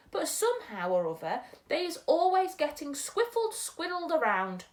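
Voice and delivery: a gentle giant muddling his words; storyteller's BFG. Acted.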